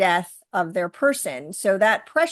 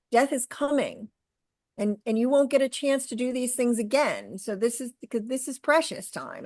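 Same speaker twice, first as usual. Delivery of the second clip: precious leaned on, as Bob did; stress on precious; 3 semitones higher, 3 dB quieter than usual. Retold or imitated. Doctor gently telling a family their time is short, precious stressed. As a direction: give the word precious the weight. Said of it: "he'd always put the emphasis on the word precious".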